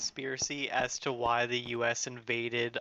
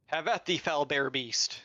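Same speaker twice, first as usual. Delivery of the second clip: hammed-up knightly battle cry; mock old-timey challenge, slow; stagey fake archaic declaiming; 2 semitones higher, slower than usual. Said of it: "my interpretation of what the foul beast would sound like".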